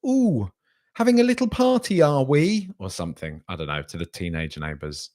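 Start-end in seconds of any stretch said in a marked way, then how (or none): 0.1-2.7 very high, put-on prim Home Counties voice; mock a nosy neighbour's passive-aggressive cooing; passive-aggressive Home Counties Brit. Home Counties person to the teenage neighbours, mock passive aggressive. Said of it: "home counties British person says".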